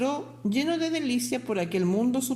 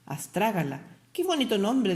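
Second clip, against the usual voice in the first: savoring the name. Acted. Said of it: "repitiendo su nombre con delicia".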